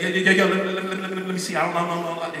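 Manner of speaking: mock-nervous caller stammering; imitating a stutter. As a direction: trip over every word, nervous to ask. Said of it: "He's stuttering 'cause he's nervous".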